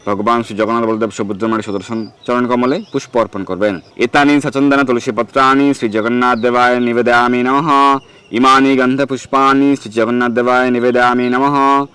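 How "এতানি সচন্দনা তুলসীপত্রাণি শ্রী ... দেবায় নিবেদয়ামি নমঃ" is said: mantra recitation. Shown as a demonstration. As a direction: intone the Sanskrit offering formula steadily. (মন্ত্র পাঠের টানা সুরে)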